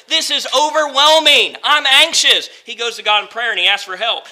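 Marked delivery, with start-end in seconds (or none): 0.1-2.5 higher-pitched overwhelmed cry; anxious cry. Acted. Preacher voicing Moses overwhelmed before God, anxious cry. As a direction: let the panic push it up and out.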